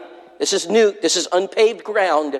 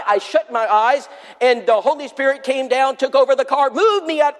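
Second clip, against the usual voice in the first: excited retelling; 3 semitones higher than usual. Retold or imitated. Sheila retells her dramatic conversion.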